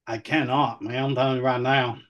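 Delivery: lightly put-on Southern twang. Host insisting to co-host, light Southern twang. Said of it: "if you had that accent".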